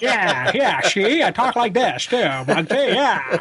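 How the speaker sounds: high-pitched goofy undercover persona, half laughing; kooky voice. Pretend. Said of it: "the kooky voice".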